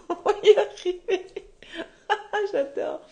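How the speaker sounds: laughing helplessly through the words; amused laugh, pitch jumping up. Real, not acted. Coach laughs as the cat interrupts the stream, laughing.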